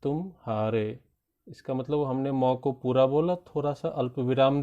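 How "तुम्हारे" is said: तुम्हारे with a brief gap after मौ; pause inside the word. Shown as a demonstration. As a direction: break तुम्हारे into two parts. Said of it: "थोड़ा सा रुक करके बीच में बोलेंगे". (तुम्हारे बीच में रुककर)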